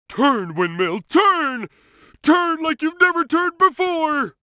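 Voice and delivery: rising, pleading cheer; excited cheer at a windmill; urging the windmill. Acted.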